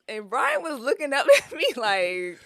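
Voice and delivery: laughing through the words. Real, not acted. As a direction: giggle while telling it. Laughing retelling Brian's look.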